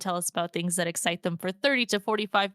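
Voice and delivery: fast, upbeat show-opening read; podcast host intro. Acted. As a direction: rattle off the welcome like a host.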